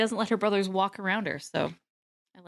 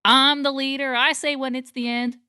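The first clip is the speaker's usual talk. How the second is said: character impression; 4 semitones higher, 3 dB louder than usual. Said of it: "And they're like".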